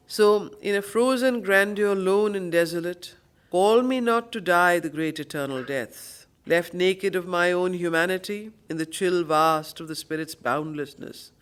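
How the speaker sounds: grand, measured verse reading; poem recitation. Acted. Teacher rereading the passage, grand recitation.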